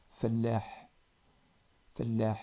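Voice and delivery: "Fallah" with doubled l and a breathy throat h; teacher models "Fallah"; Arabic ha. Shown as a demonstration. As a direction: hold the l of "Fallah", end on a breathy h. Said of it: "c'est Ha".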